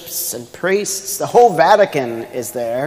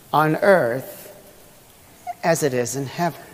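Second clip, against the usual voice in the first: prayer recitation. Acted. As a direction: pray the words reverently, phrase by phrase.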